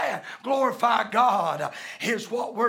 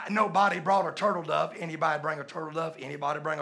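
auctioneer; 3 semitones lower, much faster than usual. Pretend. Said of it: "I feel like an auctioneer".

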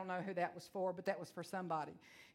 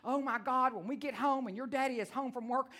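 ripping into him; 3 semitones higher, 4 dB louder than usual. Retold or imitated. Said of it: "I am just ripping him a new one".

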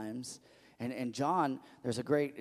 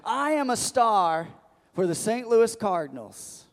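mock boast; 7 semitones higher, 6 dB louder than usual. Pretend boast about playing baseball.

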